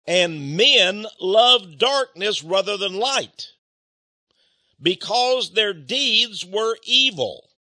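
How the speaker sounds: slow, solemn reading of the verse; measured sermon reading; scripture reading. Acted. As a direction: weigh each word of scripture. Reads scripture slowly.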